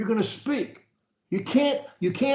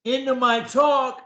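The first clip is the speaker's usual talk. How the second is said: with energy; 5 semitones higher than usual. Shown as a demonstration. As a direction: sell it with energy and conviction. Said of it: "the way I do, with energy".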